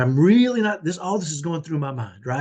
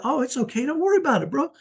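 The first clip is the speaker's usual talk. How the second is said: sudden easygoing; 10 semitones higher, faster than usual. Retold or imitated. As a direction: toss it off brightly as if the rage never happened. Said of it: "it was from a hundred to zero".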